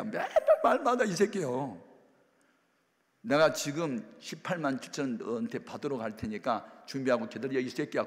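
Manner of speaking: put-on a drunk mother yelling down the phone; angry mother. Mother phones the pastor demanding money, loud cursing scold.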